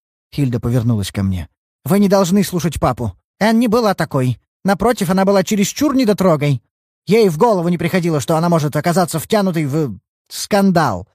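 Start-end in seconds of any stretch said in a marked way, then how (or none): 1.8-11.1 put-on higher, insistent young woman's voice; indignant daughter. Daughter pleading with the detective against her father, higher voice. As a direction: defend your sister hotly, pitched up.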